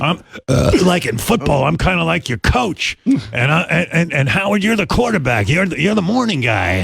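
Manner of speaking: raspy Cajun coach impression. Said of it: "he sounded kinda like that too".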